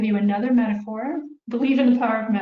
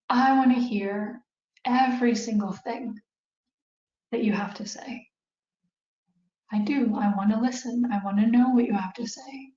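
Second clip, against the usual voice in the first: calm reassuring. Shown as a demonstration. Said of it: "powerful for you to say".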